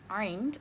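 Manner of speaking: "ain" begun deep in the throat; Arabic "ain" with a pharyngeal opening; deep throat sound. Shown as a demonstration. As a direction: squeeze the start of "ain" from the throat. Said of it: "which has a deep throat sound".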